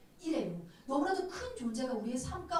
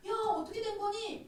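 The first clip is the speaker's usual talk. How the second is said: high-pitched, worried exclamation; alarmed friend; 9 semitones higher than usual. Retold or imitated. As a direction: act out a friend's startled question. Friends rush to hospital. (놀란 친구처럼 높은 목소리로)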